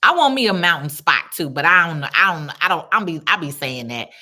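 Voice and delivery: normal talking voice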